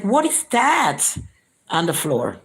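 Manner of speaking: imitating a picky man, dragging out the question; mock fussy complaint. Mocking narcissist's fussy complaint.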